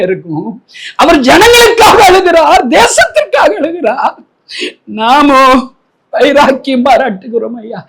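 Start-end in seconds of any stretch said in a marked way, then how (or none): 1.0-4.2 high, slow preaching wail; tearful lament. Real, not acted. Preacher mourning Jesus weeping for the nation, lamenting. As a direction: stretch it out high, as if near tears.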